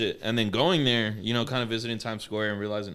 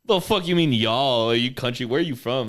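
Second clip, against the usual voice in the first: mocking disbelief; 2 semitones higher, 6 dB louder, slower than usual. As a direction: imitate them scoffing at the word y'all. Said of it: "they're like".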